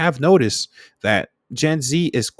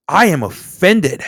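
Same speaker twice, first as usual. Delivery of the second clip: mock offence; 4 dB louder, slower than usual. Acts outraged at the video.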